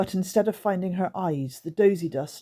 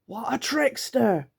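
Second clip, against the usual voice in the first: higher creature sneer; 7 semitones higher, slower than usual. Acted. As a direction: call her a trickster, creature-like. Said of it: "said Guff".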